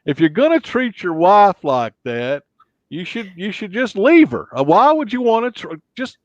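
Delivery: folksy talk-show advice voice, rising as it scolds; talk-show doctor telling someone off; Doctor Phil. Acted. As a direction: lecture like a TV counselor. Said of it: "Doctor Phil?".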